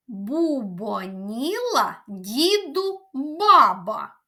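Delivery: slow tongue twister. Shown as a demonstration. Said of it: "Спробуйте повторити".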